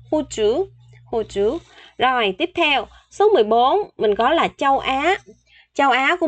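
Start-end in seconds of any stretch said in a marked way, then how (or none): 0.1-0.7 "Hô Chu" lifted in pitch; slightly raised pitch. Shown as a demonstration. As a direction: raise "Hô" a little as a model. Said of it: "Hơi lên giọng chút ha".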